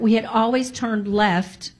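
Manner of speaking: slow, every word weighed; stress on always. Shown as a demonstration. Stressing to listeners they always turned left, slowly. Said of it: "I want to emphasize that".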